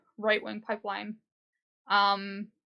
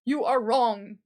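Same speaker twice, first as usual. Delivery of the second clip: preachy scolding; 2 semitones higher, 6 dB louder, slower than usual. Retold or imitated. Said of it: "on your high horse and being like".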